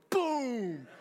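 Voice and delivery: high, loud mock boom; comic boom effect; explosion sound.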